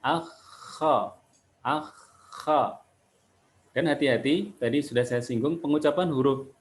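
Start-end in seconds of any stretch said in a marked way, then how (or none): 0.0-2.8 "Ah", held KH, then open "kha"; kha with unchanged mouth. Shown as a demonstration. Teacher showing the steady mouth, "Ah, kha" with open vowel. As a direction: keep the mouth shape steady through "Ah, kha". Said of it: "Nggak boleh berubah sebelah sini".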